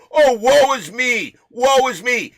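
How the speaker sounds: hammed-up lament, slow and exaggerated; dramatic sigh. Mocking her complaints.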